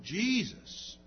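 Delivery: loud, drawn-out plea; crying out. Acted. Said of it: "cries out".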